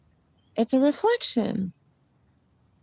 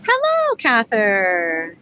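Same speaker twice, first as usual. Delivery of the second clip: sing-song hello; 5 dB louder, much slower than usual. Real, not acted. Greets a viewer in a high voice.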